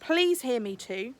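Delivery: slow plea. Acted. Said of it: "he said".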